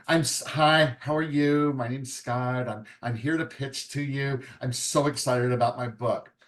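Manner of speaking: lightly acted flustered writer introducing herself; nervous pitching author. Writer pitching to the agent at a conference, lightly flustered. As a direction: stumble through the greeting like a nervous newbie. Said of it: "I'm gonna do this as best visual as I can".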